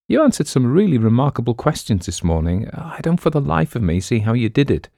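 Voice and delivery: a hint of an admiring girl; lightly voiced curious young woman. Ann asks Quaid about his answers, lightly puzzled.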